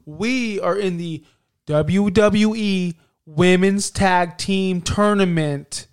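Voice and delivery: slow, loud scripted announcement; robotic promo voice. Retold or imitated. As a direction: stiff corporate read. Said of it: "you had to say this".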